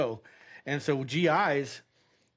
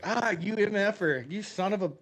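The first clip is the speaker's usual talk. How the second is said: playful angry translation; retold cussing; 4 semitones higher than usual. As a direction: imitate the cabbie's indignant cursing. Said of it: "starts cussing me in Korean".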